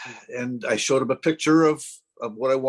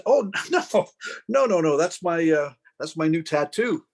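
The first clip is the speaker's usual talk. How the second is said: flustered denial; 3 semitones higher than usual. Retold or imitated. Patient correcting doctor about birthmark, flustered retold denial.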